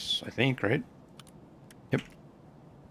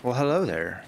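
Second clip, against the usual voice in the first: put-on British accent. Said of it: "In a British accent".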